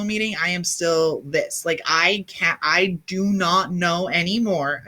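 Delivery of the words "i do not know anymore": slow, leaning on "anymore" at the end; stress on anymore. Real, not acted. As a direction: drag out "I do not know anymore", hitting "anymore". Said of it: "I will emphasize the word anymore".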